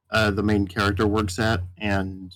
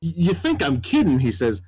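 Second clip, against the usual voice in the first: higher, earnest cowboy twang; lightly voiced cowboy insisting he's serious; a hint of a sheepish cowboy; 5 semitones higher than usual. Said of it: "very much cowboy sounding".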